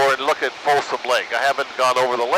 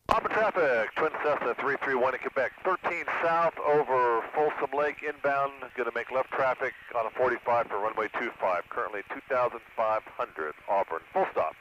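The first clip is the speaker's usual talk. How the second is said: pilot radio call, quieter; over the radio; 9 dB quieter than usual. Real, not acted. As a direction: speak into the aircraft radio. Pilot traffic announcement.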